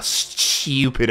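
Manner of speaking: imitated British "stupid", lightly hammed up; mock British accent. Gamer jokingly calling themselves stupid like the character, mock British accent. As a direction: echo the insult in a put-on British accent. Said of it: "very heavy British accent".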